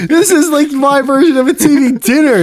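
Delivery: high-pitched mock mom voice; imitated mom. Voicing mom defending her crock pot.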